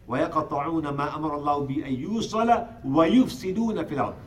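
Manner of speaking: rapid chanted Arabic recitation; flowing Quranic recitation, quick and even. Acted. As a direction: recite the verse fast, in one breath. Quran recitation inside sermon.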